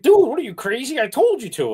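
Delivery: high-pitched disbelieving protest; mock exasperation. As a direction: imitate an incredulous buddy, voice jumping up. Friend's exasperated reaction, acted out.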